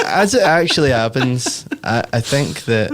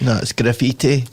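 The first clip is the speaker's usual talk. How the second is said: North Carolina accent. Shown as a demonstration. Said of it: "that's how we would say it in, like, North Carolina".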